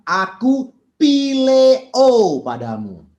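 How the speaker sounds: loud, slow, impassioned declaration as Peter; fervent answer. Acted. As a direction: proclaim Peter's love loudly and slowly. (jawaban Petrus yang lantang dan penuh semangat)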